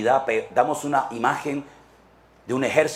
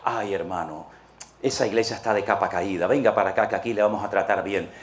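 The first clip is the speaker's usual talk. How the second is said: hushed, lightly acted commiseration; mock sympathy; 5 semitones lower than usual. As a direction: play a consoling church member luring someone over. Rival church member coaxes newcomer.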